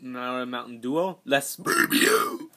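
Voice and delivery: slow, drawn-out mock Spanish accent; fake Spanish accent. Shown as a demonstration. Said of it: "So let's say that in English".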